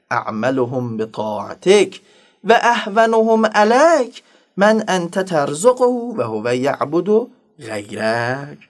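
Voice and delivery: slow, drawn-out Arabic supplication; measured devotional recital; prayer recitation. Acted. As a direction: recite the prayer solemnly, stretching the line endings.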